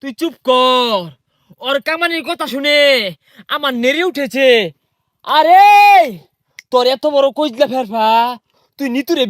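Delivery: low, measured menace with held endings; mock film hero. Hero silences helper over talk of work, mock-menacing. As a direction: draw it out like a brooding action hero.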